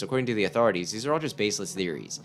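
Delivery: brisk, even news anchor read; radio news read. Acted. Player reading the in-game radio bulletin to listeners. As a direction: deliver it like an emergency broadcast.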